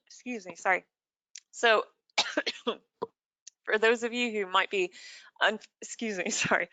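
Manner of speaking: coughing after swallowing wrong; choking a little, clearing the throat; swallowed wrong way. Real, not acted. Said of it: "I just swallowed the wrong way".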